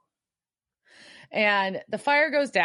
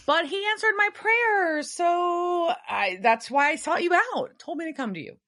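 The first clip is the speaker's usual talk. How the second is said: mock earnest Sam; 9 semitones higher than usual. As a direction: parody a dutiful little brother. S1 voices Sam's earnest report.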